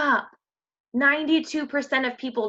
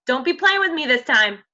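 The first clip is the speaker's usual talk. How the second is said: put-on sassy girlfriend talk; 3 semitones higher, 4 dB louder than usual. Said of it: "like, talk like that".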